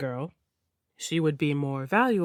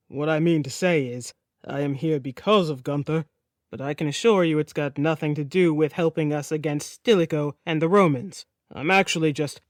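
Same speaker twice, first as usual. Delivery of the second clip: lower, awkward prince; lightly voiced flustered Sigurd; 4 semitones lower than usual. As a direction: stumble through an excuse. Sigurd fumbling an explanation.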